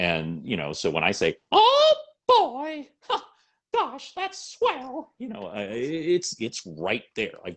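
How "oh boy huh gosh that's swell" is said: goes way up in pitch, stretched out slowly. Demonstrating a voice the speaker has done for over a decade: Mickey Mouse voice. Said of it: "like Mickey Mouse".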